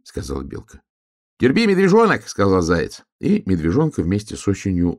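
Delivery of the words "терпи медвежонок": high-pitched little hare; squeaky storybook hare. A narrator's reading. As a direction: pipe up in a high animal voice. Hare answers the trapped cub.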